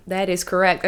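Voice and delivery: low, soft Southern accent. Real, not acted. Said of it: "I needed a Southern accent to say that".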